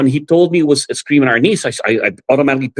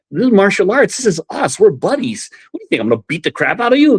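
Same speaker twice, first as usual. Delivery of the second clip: friend reassuring; 7 semitones higher than usual. Retold or imitated. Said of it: "But he goes".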